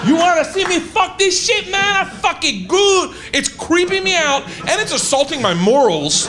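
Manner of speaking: high, hammed-up sleazy performer boasting; mock the creepy stage guy hyping himself up; sleazy show guy. Comic imitating the creepy performer taunting the crowd, high and hammed-up. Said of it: "he's like".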